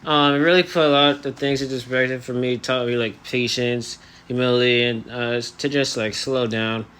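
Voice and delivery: talking through elastics in the mouth; jaw held shut. Real, not acted. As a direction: speak with the jaw barely moving. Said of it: "now I have, um, elastics in my, uh, mouth".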